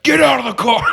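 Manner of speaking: high, loud laughing yell; shout. Retold or imitated. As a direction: yell it at him through the rain. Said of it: "so she's like".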